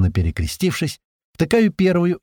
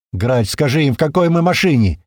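loud shout across the car; loud urgent yell; 3 semitones higher, 4 dB louder than usual. Acted. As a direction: shout over the noise. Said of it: "ору я на весь салон".

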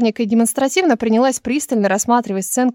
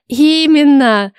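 slow, louder triumphant declaration; solemn; 4 semitones higher, 5 dB louder, much slower than usual. A narrator's reading. Elsa solemnly confirming the royal summons, slow and loud. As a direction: announce it like grand news. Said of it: "Торжественно кивнула Эльза".

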